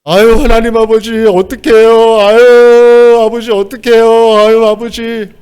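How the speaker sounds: high, loud, drawn-out wailing prayer; stretched, pleading 아유 in a high, loud voice; imitating a pleading prayer. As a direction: cry out to God like a desperate deaconess. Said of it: "이렇게 기도를 하시는 거예요".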